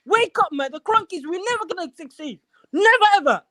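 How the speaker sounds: furious caller shouting down the line; angry rant. Real, not acted. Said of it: "I'm so angry".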